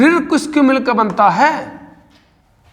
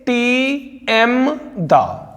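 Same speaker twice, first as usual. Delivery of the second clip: each syllable stretched out; very slow spelled-out mnemonic; much slower than usual. Shown as a demonstration. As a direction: drawl the memory trick for students. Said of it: "इनकी trick है".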